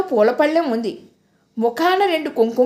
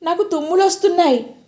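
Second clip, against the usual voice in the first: polite; 5 semitones higher, faster than usual. Acted. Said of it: "నమ్రతగా చెప్పాను".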